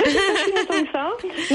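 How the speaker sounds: slow, laughing through the words. Real, not acted. Caller admits to the hosts she just woke, laughing. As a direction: chuckle it out, a bit embarrassed. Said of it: "caller repeats her wake-up answer".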